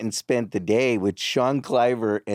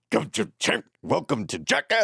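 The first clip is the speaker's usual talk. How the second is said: put-on German accent; 3 semitones higher than usual. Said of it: "Was it very like that?".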